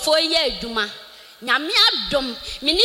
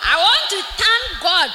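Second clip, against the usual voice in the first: laughing, then shouting thanks; joyful laugh. Real, not acted. Woman thanking God before the church, laughing joyfully. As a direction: burst into happy laughter and praise.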